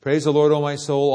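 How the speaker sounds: loud opening of a psalm; psalm proclamation. Acted. Preacher quoting Psalm 103: a loud psalm call. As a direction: ring out the praise.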